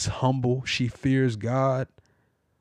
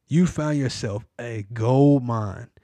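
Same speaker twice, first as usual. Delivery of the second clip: slower, every word weighed; slow emphatic repeat. Shown as a demonstration. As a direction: lean on gold mine slowly.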